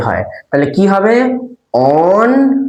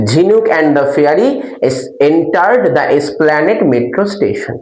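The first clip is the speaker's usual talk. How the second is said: very slow answer read word by word; slow dictation; much slower than usual. Shown as a demonstration. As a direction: dictate it slowly so they can write.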